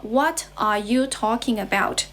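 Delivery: "What are you talking about" word by word, every word stressed equally; learner's careful version, "What are you talking about" with full "are you"; each word said separately. Shown as a demonstration. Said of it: "we say the sentence like this".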